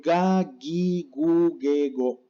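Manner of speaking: "ga, gi, gu, ge, go" with gi as gui, ge as gue; slow, spaced hard-g syllables "ga, gi, gu, ge, go"; Japanese hard G. Shown as a demonstration. Teacher corrects Spanish habit, "ga, gi, gu, ge, go" all hard. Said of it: "en japonés no se lee así".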